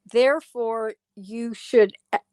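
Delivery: hiccuping mid-sentence; words broken by a hiccup. Real, not acted. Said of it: "I've got the hiccups".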